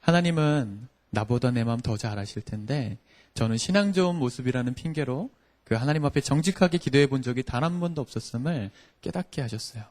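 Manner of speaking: normal talking voice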